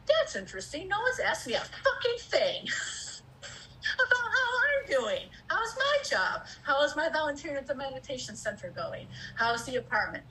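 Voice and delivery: venting disbelief, voice cracking high; hurt outrage. Retold or imitated. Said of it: "I'm like".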